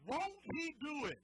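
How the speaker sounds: high, loud, slow call; slow, loud catchphrase cry; emphatic call. Shown as a demonstration. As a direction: cry it out to the neighbor. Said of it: "say this with me".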